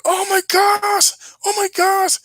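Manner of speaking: high, loud mock gasp of amazement, slowed; imitating a gawking crowd, squealing it out. Mocking people stunned by a flying horse, high squeal. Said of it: "They're all like".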